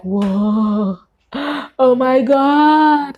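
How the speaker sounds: stunned, breathy disbelief; startled gasp. Retold or imitated. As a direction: caught off guard by a voice nobody else heard. Startled by a voice in her ear.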